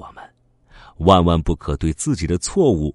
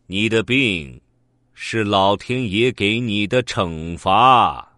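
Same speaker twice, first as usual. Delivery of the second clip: solemn dream voice; slower than usual. Acted. Dream figure pronounces judgement.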